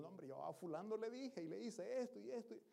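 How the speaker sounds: mock chatty bragging; boasting in chat. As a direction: lightly mimic someone bragging to a friend. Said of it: "nos jactamos platicando".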